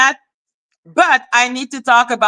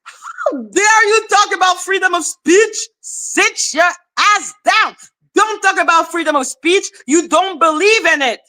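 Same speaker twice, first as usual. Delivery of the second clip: angry rant; 5 semitones higher than usual. Real, not acted. Ranting at rival.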